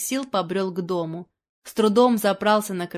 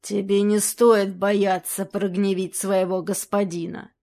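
growled. Acted. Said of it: "прорычал Чернобородый".

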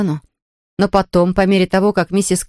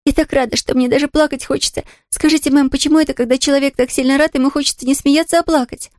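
put-on a happy little girl's voice, higher; young girl Pollyanna; 8 semitones higher than usual. A narrator's reading. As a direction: voice an excited girl near tears of joy. Girl's voice in story.

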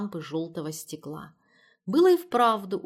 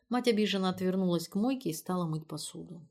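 ordinary delivery

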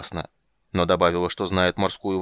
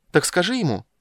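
much higher siren insisting; siren demanding; 11 semitones higher, 5 dB louder than usual. Acted. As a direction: tell him, siren pressing. Siren voiced, repeats insisting.

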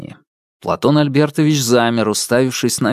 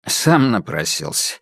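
smug remark; 4 semitones lower than usual. Acted. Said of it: "ухмыльнулся".

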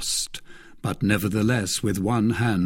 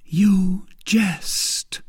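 hollow, whispered disbelief; 10 semitones higher than usual. Acted. Milady stunned by his threat, hollow whisper. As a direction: breathe it out, drained. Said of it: "in a hollow voice".

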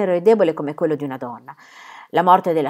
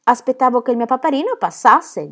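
put-on much higher, louder, pleading little boy; small child; 6 semitones higher, 4 dB louder than usual. Little Pierre pleads with his father, high childish begging. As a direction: beg like a tiny child clinging to his dad.

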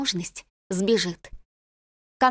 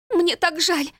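high, sobbing apology; young maid sobbing in guilt; 9 semitones higher, slower than usual. A narrator's reading. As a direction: cry out the apology through tears. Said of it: "всхлипывала она".

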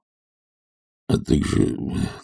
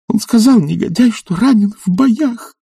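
put-on sobbing young lady; 4 dB louder than usual. A narrator's reading. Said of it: "рыдала барышня".

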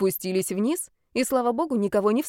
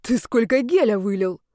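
louder, astonished question; a shocked gasp at the wasted gel; stunned; 2 semitones higher, 4 dB louder than usual. A narrator's reading. She sees the half-empty bottle, stunned. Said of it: "обалдела я".

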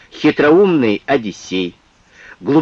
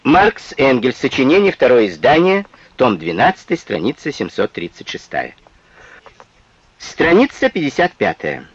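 dictating. Shown as a demonstration. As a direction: read it out for students to write down. Citation read out like dictation.

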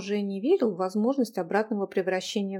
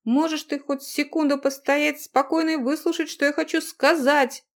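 loud, higher desperate yell; exasperated yell; 6 semitones higher, 5 dB louder than usual. Acted. Husband yelling at the struggling girl to stop. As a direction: yell at her to stop fighting. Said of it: "завопил он".

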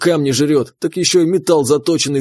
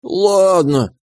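higher, sulky little mole voice; slightly hurt; 5 semitones higher than usual. Acted. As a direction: give in with a hurt sigh. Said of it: "с лёгкой обидой ответил".

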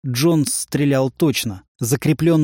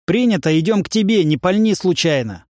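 urgent shout; 5 semitones higher than usual. Acted. Radio reply during firefight.

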